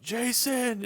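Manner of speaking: high-pitched call to a friend. Retold or imitated. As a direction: call the name out to someone leaving. Calling after departing friend at wedding.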